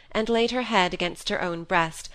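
ordinary delivery

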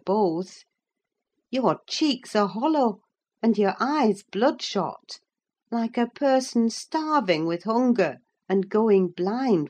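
a housekeeper begging her master to eat; anxious servant's reproach; worried Nelly. Acted. Nelly scolds and pleads.

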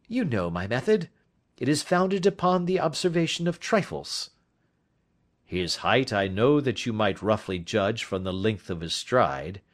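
a confident detective laying out his case; lightly voiced detective. Detective asking his friend for advice, lightly voiced. Holmes describing his method.

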